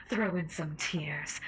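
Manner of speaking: menacing seductive host voice; sinister mistress. Acted. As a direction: taunt him like a cruel mistress. Sinister radio host role.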